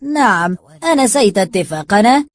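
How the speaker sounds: feigned surprise. A narrator's reading. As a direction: act taken aback, voice lifted. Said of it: "وكأنه مندهش".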